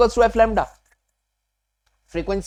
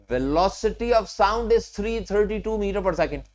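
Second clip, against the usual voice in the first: dictation pace; 4 dB quieter, much slower than usual. Shown as a demonstration. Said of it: "dictating a fact".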